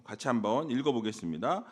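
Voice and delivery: ordinary talk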